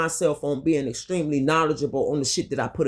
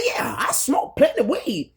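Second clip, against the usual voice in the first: unvoiced, much higher half-laughing whisper; whispered admission; 7 semitones higher than usual. Admitting to the doctor she smokes weed, sheepish whisper. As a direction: breathe it out sheepishly.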